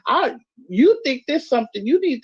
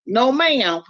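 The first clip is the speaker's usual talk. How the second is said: mock Southern accent; 3 semitones higher than usual. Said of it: "y'all be like".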